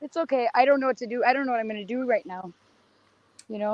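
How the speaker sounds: hoarse, worn-out voice; rough voice that is giving out; losing her voice. Real, not acted. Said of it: "Sorry, I'm losing my voice".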